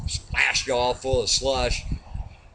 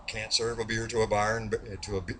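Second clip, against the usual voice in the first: soft, faltering run at "beer to a bar"; stumbling on tongue twister; 2 semitones lower, 7 dB quieter, faster than usual. Acted. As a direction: trip over the b's and break off. Tongue twister breaks down, restarted.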